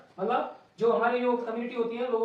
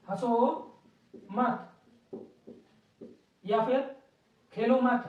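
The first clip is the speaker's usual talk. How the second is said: slow dictation; much slower than usual. Shown as a demonstration. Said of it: "मैंने यहाँ लिख दिया है".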